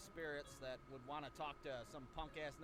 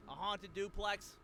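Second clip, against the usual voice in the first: slow incredulous question; mock skeptical; 2 semitones higher, 3 dB louder, slower than usual. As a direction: mimic a doubtful listener. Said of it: "I know what you're saying".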